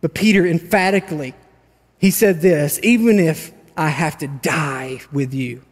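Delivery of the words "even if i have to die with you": dramatic. Retold or imitated. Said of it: "It's, like, so dramatic".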